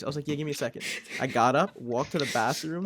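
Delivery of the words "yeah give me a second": understated, stone-cold delivery; deadpan. Retold or imitated. Telling the friend to wait before throwing up, deadpan. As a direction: say it evenly, as if nothing is wrong. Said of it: "stone cold face".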